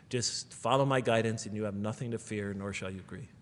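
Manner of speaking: soft, quiet, gentle voice of comfort; tender reassurance. Retold or imitated. A preacher voicing God softly to the ashamed young couple, gentle and reassuring. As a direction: speak low and soothing to a frightened child.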